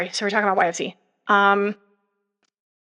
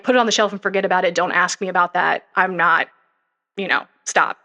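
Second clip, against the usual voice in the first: fast, louder curt dismissal, imitating a leader; dismissive brush-off; 4 dB louder than usual. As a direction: rattle it off and shut them down. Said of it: "And it's more like".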